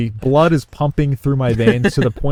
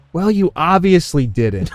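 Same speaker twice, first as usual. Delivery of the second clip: snooty retort; 5 semitones higher than usual. Retold or imitated. Customer scolding the waiter.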